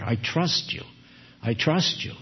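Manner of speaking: quiet, tender repetition; soft echo of the song. Acted. Preacher echoing the congregation's song, soft and tender. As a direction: say it softly, almost singing. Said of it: "just like our song here".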